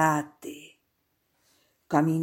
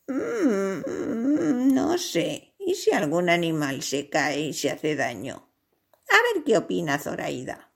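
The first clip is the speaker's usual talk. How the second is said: hesitant doubt. A narrator's reading. Giraffe unsure of her friend's plan, doubtful. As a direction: hem and haw over the risk.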